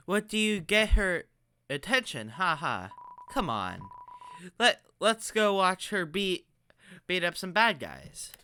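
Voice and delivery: lightly voiced kid monster; kid monster character. Kid monster inviting a friend to watch her, lightly voiced.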